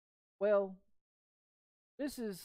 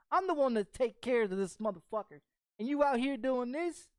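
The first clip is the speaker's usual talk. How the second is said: retold angry rant; 3 semitones higher than usual. Yelling at girlfriend.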